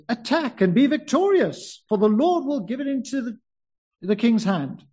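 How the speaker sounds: sarcastic fake encouragement, voice up high. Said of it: "Very sarcastically".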